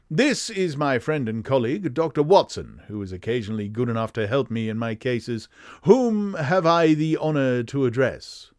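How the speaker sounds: lightly high-pitched English gentleman; very English, polished introduction; Sherlock Holmes. Acted. Detective introducing his colleague to a client, high English voice. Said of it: "his high-pitched, very English voice".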